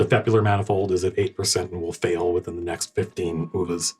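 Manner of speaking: understated machine-like status readout; non-inflected ship intelligence. Acted. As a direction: report it evenly with little inflection. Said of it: "It's very kind of non-inflected".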